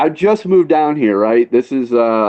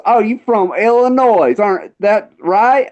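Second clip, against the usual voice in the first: higher, slowing redneck voice; old drunk redneck; 6 semitones higher than usual. Retold or imitated. Old drunk questions northern newcomer, redneck impression. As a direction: imitate an old Southern drunk, pitched up. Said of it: "this old drunk redneck".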